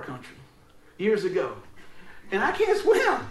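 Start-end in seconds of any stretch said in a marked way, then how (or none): 2.3-3.3 laughing through the words; chuckling as he admits it. Real, not acted. Laughing while telling drowning story.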